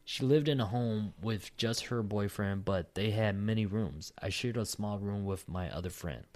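steady reading aloud from a submission; story read-aloud. Acted. Co-host reads next listener story, steady read-aloud. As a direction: read the account out evenly, sentence by sentence.

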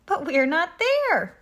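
high, loud, slow bleat; dismayed sheep, drawn out high. A narrator's reading. Sheep find themselves missing from the farm, bleating. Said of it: "bleated the sheep".

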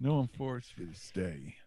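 Forrest Gump voice. Retold or imitated. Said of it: "Was that Forrest Gump?".

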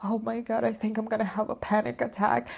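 high, frightened near-panic voice; on the edge of a panic attack; panicked fear. Retold or imitated. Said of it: "so scared that I was like".

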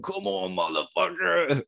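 high, comic goading from the background; mock drunken taunt. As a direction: pretend to dare them on, rising in pitch. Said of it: "I'm in the background saying".

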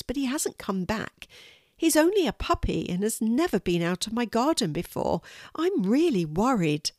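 lightly voiced anxious neighbour; a hint of a fretting owner who lost her puppy; worried Miss Rose. Miss Rose talks to Fiona.

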